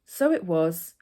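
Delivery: steady, measured read-aloud of her own chapter; calm storytelling narration; memoir reading. Acted. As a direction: read it like an author at a book event, unhurried. Author reads her memoir chapter.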